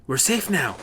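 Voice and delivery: mild yell. Acted. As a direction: call it over the gunfire, not full force. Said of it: "he yells over the gunfire".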